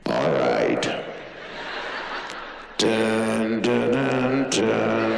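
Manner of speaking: low, slow gunfighter dad; a lightly voiced low, stern father with humming drumbeat. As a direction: menace the kids like an old gunfighter. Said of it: "if Dad ever said".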